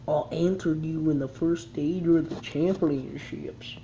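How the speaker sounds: slow, careful character read; slow first try. Shown as a demonstration. Gamer trying out the host's line, slow careful read. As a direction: try the line slowly before the accent. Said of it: "I'll do this accent".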